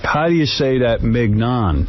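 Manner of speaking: slow retelling with "mignon" said MIG-non; imitated mispronunciation. Imitating the idiot asking Scott, mispronounced "mignon". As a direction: sound out the hard G in "mignon". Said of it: "this idiot goes to Scott".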